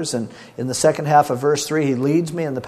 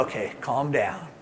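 calming; 5 dB quieter than usual. Acted. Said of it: "is your role to go".

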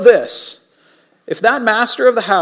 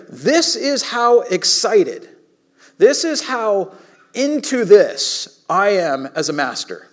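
emphatic excitement; slower than usual. Acted. Preacher voicing the master to his servants, emphatically excited. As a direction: stretch it out with mild, earnest excitement. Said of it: "he is so happy and excited".

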